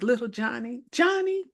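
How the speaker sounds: mother gently pleading with her son in the store; gentle mother. Retold or imitated. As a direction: mildly coax the child. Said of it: "in the most gentle kind of".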